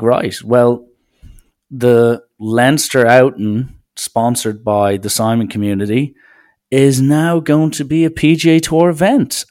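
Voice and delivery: lightly voiced PGA official, slow and loud; a hint of a pompous official reading out a ruling; mock official announcement. Imagining the PGA declaring charity outings official, mock announcer. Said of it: "the PGA must adhere to the guidelines and be like".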